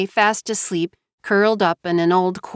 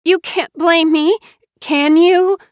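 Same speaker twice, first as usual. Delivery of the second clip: sobbing; 10 semitones higher, 6 dB louder than usual. Acted. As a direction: beg through sobs. Mara Joy voiced by narrator.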